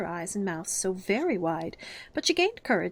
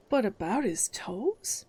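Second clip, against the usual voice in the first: persistent; much slower than usual. Acted.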